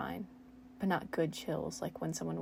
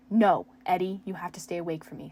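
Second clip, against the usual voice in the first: loud pleading cry; shout; 10 dB louder than usual. Acted. Steve begging the dying Eddie, loud pleading shout. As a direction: shout at him to stay awake. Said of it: "Steve shouted".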